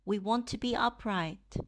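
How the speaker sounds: measured meditation guidance, pausing between phrases; guided meditation. Real, not acted. Teacher leading livestream listeners into loving-kindness practice, guided meditation. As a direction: guide them gently, leaving space to reflect.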